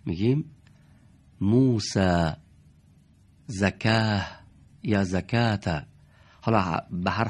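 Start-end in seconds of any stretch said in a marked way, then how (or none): 1.4-2.3 موسی in an Arabic accent, ending in a short bright a, musæ. Shown as a demonstration. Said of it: "لهجهٔ عرب بگیم". 3.5-4.3 زکاه in an Arabic accent, final h dropped, zakæ; Arab-style زکاه. Shown as a demonstration. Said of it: "لهجهٔ عرب بگیم".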